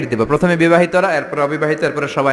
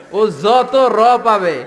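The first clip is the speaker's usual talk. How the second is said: very slow; 6 semitones higher, 4 dB louder, much slower than usual. Shown as a demonstration. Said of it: "slow emphasis".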